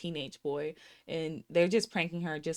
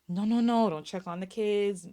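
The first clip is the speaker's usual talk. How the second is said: firm, emphatic no, retold; adamant mom; 3 semitones higher, 3 dB louder than usual. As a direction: lay down the law as the mother. Mom's adamant refusal, retold.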